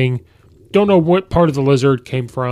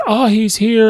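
imitating Aunt May; 10 semitones higher, 5 dB louder than usual. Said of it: "Aunt May goes".

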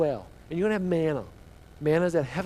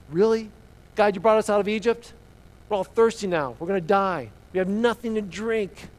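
indignant, raised-voice grumbling; mock complaining; 4 semitones higher, 4 dB louder than usual. Thirsty Israelites grumbling at God, complaining. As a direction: play the aggrieved, thirsty complainer. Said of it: "Now you're complaining".

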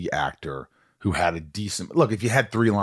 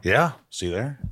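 lightly voiced wrestler; 6 semitones higher, slower than usual. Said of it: "He goes".

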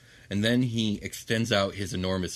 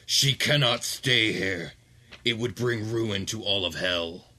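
cold archduke; slower than usual. Acted. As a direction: shut the argument down. Ramazal repeats.

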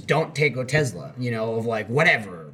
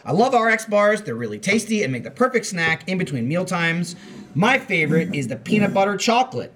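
peppy, higher scripted endorsement; ad read; 5 semitones higher than usual. Acted. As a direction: gush like a TV commercial. Ad read, corrected after.

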